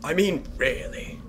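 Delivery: exaggerated disbelief. Real, not acted. Player scoffing at the statues, drawn-out disbelief. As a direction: stretch it out in mock outrage.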